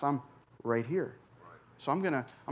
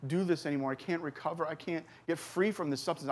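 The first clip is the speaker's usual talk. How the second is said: softer, higher, pleading under the breath; desperate retold prayer; 4 semitones higher, 5 dB quieter than usual. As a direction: quietly beg God for help, a mild echo of that night. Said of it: "I cried out to God".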